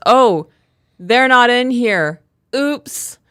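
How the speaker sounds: slow, high-pitched mock innocence; imitated sheepish child. Son caught shoeless in the car, imitated sheepish innocence. Retelling the son's guilty discovery.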